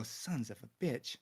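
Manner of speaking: soft curse under the breath; muttered curse. Acted. Herrick to the one right next to him, muttered under his breath. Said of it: "under his voice".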